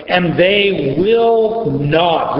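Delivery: slow, weighty "And they will not," each word set apart; emphatic. Shown as a demonstration. Reading Scripture to the class, slow and emphatic. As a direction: lay heavy stress on "will not" in "And they will not,". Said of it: "very emphatic".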